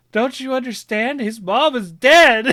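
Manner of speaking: high, loud hammed-up despair, breaking into a laugh; mock anguish. Dad to his daughters, hammed-up anguished protest. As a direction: play up the grief as a joke. Dad retelling crying at cartoon.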